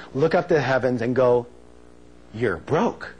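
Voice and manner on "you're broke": lightly put-on fortune teller reading; mock clairvoyant reveal; mock psychic pronouncement. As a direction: play at divining the answer from the heavens. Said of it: "put your hand on your forehead".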